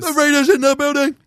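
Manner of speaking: big booming proclamation; shouted announcement. Pretend. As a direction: announce it like a ringmaster.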